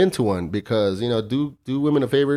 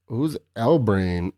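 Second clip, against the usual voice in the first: mock Valley Girl; much slower than usual. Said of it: "all Valley Girl style".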